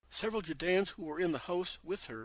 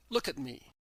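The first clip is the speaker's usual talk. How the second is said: even louder; 2 semitones lower than usual. Acted. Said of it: "in an even louder voice".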